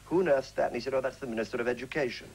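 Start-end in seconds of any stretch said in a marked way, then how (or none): 0.1-0.7 lightly voiced startled woman. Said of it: "Pearl Hackney said to him". 0.9-2.3 higher-pitched Cockney reply; Cockney character voice; strong Cockney accent. Retold or imitated. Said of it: "had rather a strong Cockney accent".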